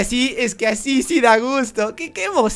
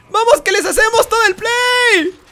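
high, loud cheer; excited rallying cry; 10 semitones higher, 5 dB louder than usual. Real, not acted. Gamer urging his team on mid-match, excited shout. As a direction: push the pitch up and rally the team.

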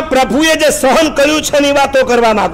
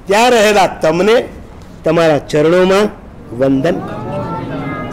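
devotional prayer; 2 semitones lower than usual. Acted. (ધીમી, ભક્તિભરી પ્રાર્થના)

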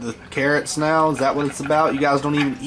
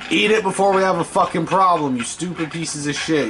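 angry repeat; 6 semitones higher than usual. Real, not acted. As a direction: push the threat harder the second time. Repeats threat at slimes.

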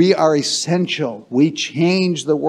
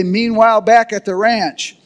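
call for the crowd; 5 semitones higher than usual. Shown as a demonstration. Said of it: "everybody say".

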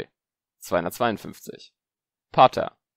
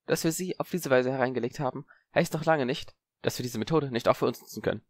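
voiced smug Zabini; 5 semitones higher than usual.

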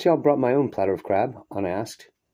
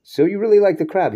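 normal voice; 10 semitones higher, 8 dB louder than usual. Acted. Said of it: "in his normal voice".

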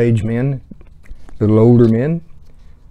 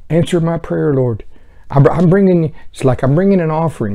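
higher, whining plea; mock pleading sinners; 6 semitones higher, 3 dB louder than usual. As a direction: beg God like a spoiled child. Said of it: "they're going".

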